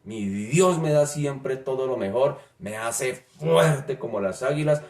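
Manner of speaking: preacher giving the psalm its true tone; fervent psalm reading. Shown as a demonstration. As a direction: let every line burst with gratitude. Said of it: "el tono que tiene este texto".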